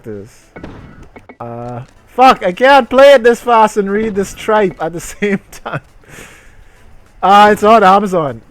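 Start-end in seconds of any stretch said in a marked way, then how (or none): 2.1-5.8 higher and louder, exasperated rant; frustrated outburst. Real, not acted. Streamer fed up with reading while playing, loud and exasperated. 7.2-8.4 excited find. Real, not acted. Excited discovery of product.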